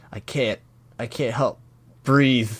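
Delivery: acted breathless plea. Voicing character who cannot breathe.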